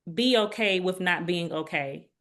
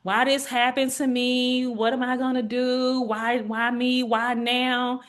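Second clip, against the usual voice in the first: slow, higher whining; mock self-pity; 4 semitones higher, slower than usual. Patient voicing a self-pitying attitude, slow and higher. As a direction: moan it out, woe is me. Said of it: "Woe is me".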